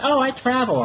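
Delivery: high, girly imitation of a stripper; squeaky ditzy voice, mocking her. Mimicking the stripper bragging about Florida, high and girly.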